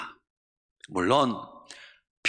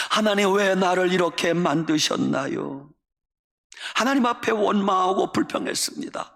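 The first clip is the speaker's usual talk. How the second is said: complaining prayer; 4 semitones higher than usual. Retold or imitated. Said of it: "불평을 합니다. 원망을 합니다".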